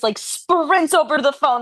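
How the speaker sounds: ordinary delivery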